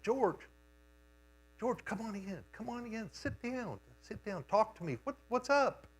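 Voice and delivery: imitating a father gently defusing anger; calming invitation. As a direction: coax an angry man to sit and talk. Father calming angry shop steward.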